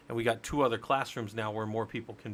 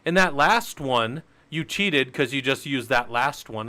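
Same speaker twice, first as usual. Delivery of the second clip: objecting student; 5 dB louder than usual. Retold or imitated. Student calls out the instructor for cheating, mock objection. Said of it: "some of you maybe, very astutely said".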